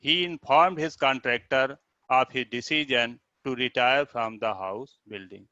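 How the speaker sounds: slow, word-by-word passage reading; reading aloud. Acted. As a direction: read it out slowly in short phrases. (धीमे-धीमे पाठ पढ़कर सुनाना)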